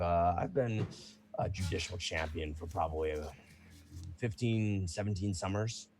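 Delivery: lightly voiced proud fighter, mostly in own voice; a hint of a seasoned champion; casual veteran fighter answering; Bruno the champion.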